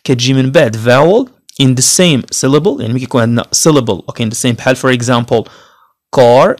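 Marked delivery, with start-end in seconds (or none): 6.2-6.6 car with the final R dropped, "kaa"; British soft R. Shown as a demonstration. Teacher modelling British car for learners, soft R. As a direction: say car British-style, R left silent. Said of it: "غنقولوا كار".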